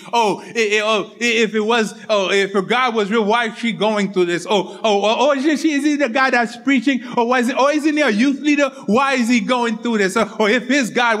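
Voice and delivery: mock the gossips, voice climbing as the questions pile up; gossiping critics. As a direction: imitate nosy critics sputtering pointed questions. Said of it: "they're always running their mouth".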